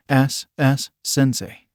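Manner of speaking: a light flustered stammer on "S, S," before "sensei"; stuttering. A narrator's reading. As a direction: trip over the first sound of "sensei" twice, mildly. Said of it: "Izuku stuttered out".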